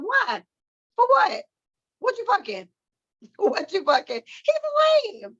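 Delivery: high, disbelieving outburst; can't believe anyone still wants him; incredulous. Real, not acted. Mocking women who still like him.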